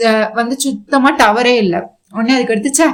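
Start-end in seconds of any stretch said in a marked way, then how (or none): 2.7-2.9 grumbling complaint. Retold or imitated. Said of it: "புலம்பிட்டே இருக்கிறாரு".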